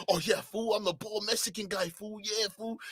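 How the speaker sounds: a hint of a mock Chicano accent; mocking Mexican accent. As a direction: mumble a mock vato voice. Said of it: "Ain't nobody talking like that".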